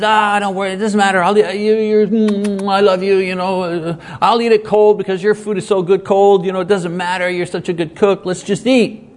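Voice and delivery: lightly voiced husband brushing it off; a hint of a husband smoothing things over; smooth-talking husband. Husband brushes off cold dinner with flattery, mildly. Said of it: "one-man play I just put on".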